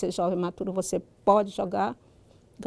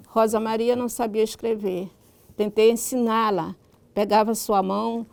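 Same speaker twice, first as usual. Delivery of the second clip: literary reading aloud; 3 dB louder than usual. Acted. Writer reads a passage from her book to listeners, reading aloud. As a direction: read the story out in measured, carefully articulated phrases.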